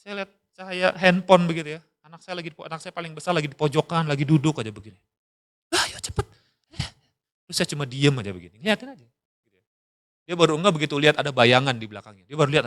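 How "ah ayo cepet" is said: hushed urgent whisper. Retold or imitated. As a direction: whisper so the parents won't wake. Son whispering while gaming at night.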